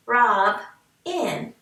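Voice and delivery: "Rob" then "in" as separate claps; syllables split. Shown as a demonstration. Teacher clapping out syllables with the class. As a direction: clap "Rob" and "in" apart. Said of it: "do your chin".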